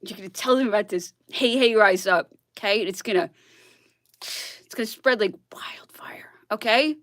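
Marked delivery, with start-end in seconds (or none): 4.2-7.0 whisper. Real, not acted. Sudden whisper mid rant.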